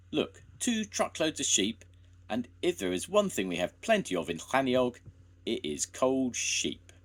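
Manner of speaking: high indignant rant; angry complaint. A narrator's reading. Eli complaining about the sheep, high indignant rant. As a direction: complain with scorn.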